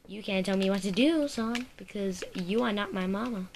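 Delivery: sassy mock defiance. Mock quarrel with in-game character.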